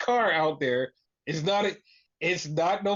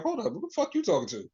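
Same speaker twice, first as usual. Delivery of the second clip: indignant retort, higher and fast; mock yelling; 5 semitones higher, much faster than usual. Wrestler confronting whoever cut in, mock yelling. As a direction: imitate a wrestler snapping back, fast and higher. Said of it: "Santos was yelling at".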